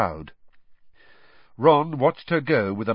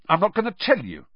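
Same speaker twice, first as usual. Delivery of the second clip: scathing; 9 semitones higher, 3 dB louder, faster than usual. A narrator's reading. Ron scornfully refusing to tell Hermione, scathing. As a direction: sneer the words at her. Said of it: "said Ron scathingly".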